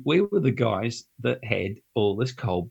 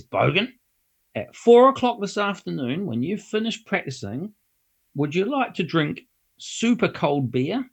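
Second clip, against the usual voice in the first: mock serious; 5 semitones higher than usual. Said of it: "He gets all serious".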